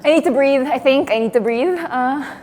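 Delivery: real panic, a bit loud; flustered panic. Real, not acted. Performer under watch needing to breathe, flustered. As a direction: talk yourself through needing air. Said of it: "I am panicking".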